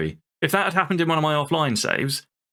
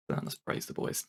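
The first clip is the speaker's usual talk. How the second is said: whisper; 14 dB quieter than usual. Real, not acted. Whispered aside to viewers.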